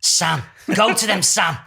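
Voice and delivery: slow mock séance command; Derek Acorah. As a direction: summon the spirit guide, drawn out. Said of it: "he'd be doing all that".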